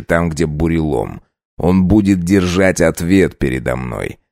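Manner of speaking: low, slow, cold threats; menacing count. Acted. Count threatening the servant's pack, low and cold.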